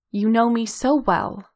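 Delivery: ordinary delivery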